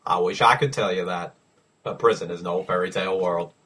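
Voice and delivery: low, measured movie narration; Morgan Freeman. Retold or imitated. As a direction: narrate low with solemn gravity. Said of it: "You just wanna hear a Morgan Freeman?".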